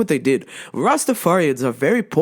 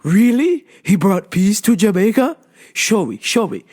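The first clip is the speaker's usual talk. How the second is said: mock challenge; 4 semitones higher, 3 dB louder than usual. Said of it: "And he goes".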